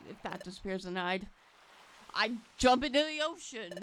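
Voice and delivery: lightly voiced, frantic partner Pokemon; desperate to get the treasure back; panicked Riley. Riley panicking over stolen treasure.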